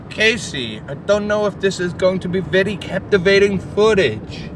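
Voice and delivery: mock Brazilian accent; sexy Brazilian accent. Friend imagined in the back of the car, sexy Brazilian accent. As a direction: attempt a suave Brazilian accent. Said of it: "Sexy Brazilian accent".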